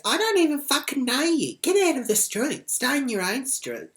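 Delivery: loud mock-indignant retort; mimicked angry neighbour. Retold quarrel, mimicking the other woman.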